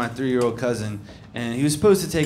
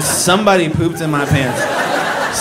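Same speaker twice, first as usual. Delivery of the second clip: put-on sincere kid; slower than usual. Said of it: "Said with the kind of sincerity".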